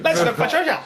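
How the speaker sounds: a high, put-on Canadian accent that falls apart; a failed go at a Canadian accent; attempted Canadian accent. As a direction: try a Canadian voice and lose it. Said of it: "I can't do it".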